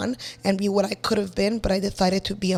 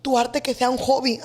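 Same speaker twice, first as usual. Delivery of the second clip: pleading mom; 6 dB quieter than usual. Retold or imitated. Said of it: "she's like".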